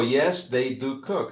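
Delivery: slow, careful "Yes, they do cook."; slow model answer. Shown as a demonstration. Teacher to class, slowly modelling the answer.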